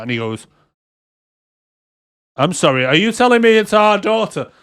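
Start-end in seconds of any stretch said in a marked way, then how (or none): 2.4-4.5 incredulous. Retold or imitated. Acted film confrontation about daughter.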